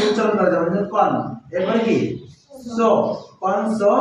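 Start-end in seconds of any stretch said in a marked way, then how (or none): 0.9-1.1 কন as one separate syllable. Shown as a demonstration. Teacher splitting a word for pupils, syllable by syllable. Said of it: "এইভাবে ভাগ করে উচ্চারণ". 2.8-3.9 সো alone, then joined as কনসো; syllable by syllable. Shown as a demonstration. Teacher splitting a word for pupils, building up কনসো. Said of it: "এইভাবে ভাগ করে উচ্চারণ".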